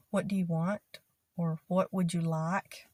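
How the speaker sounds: "What do you want?" with a gentle rise; friendly shopkeeper asking; friendlier. Shown as a demonstration.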